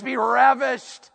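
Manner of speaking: "ravished" stretched out and punched; relished, drawn-out delivery. Shown as a demonstration. Preacher showing how the Hebrew is said, savoring it. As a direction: draw out "ravished" slowly with relish. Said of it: "that's how you say it".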